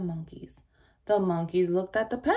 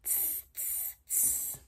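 very soft hissed monkey tss; 15 dB quieter, much slower than usual. A narrator's reading. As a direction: tease back like a cheeky monkey.

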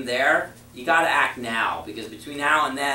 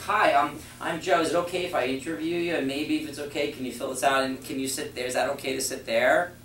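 timid asking. Pretend. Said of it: "I was like".

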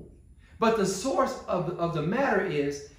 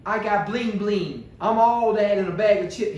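mock bragging; 4 dB louder than usual. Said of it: "Jesus didn't display".

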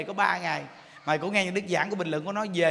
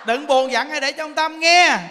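high, loud exhortation; fervent preaching; 5 semitones higher, 8 dB louder than usual. Acted. Monk urging listeners to recite, fervent preaching. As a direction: rouse the crowd to practice.

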